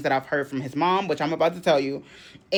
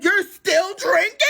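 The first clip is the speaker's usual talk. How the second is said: shocked question; 5 dB louder, slower than usual. Retold or imitated. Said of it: "I said".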